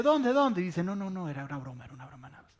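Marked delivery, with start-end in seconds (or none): 0.0-0.6 high, loud startled question; alarmed, raised-pitch questioning; startled awake. Acted. Samson jumps up at alarm. 0.8-2.5 quick dismissive denial, fading out; hasty backpedaling. Acted. Delilah backpedals after false alarm.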